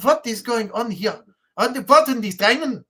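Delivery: lightly put-on German accent, Ws turned to Vs; rough German accent. Shown as a demonstration. Showing how Germans say their Ws as Vs, rough German accent. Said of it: "put a V at the beginning".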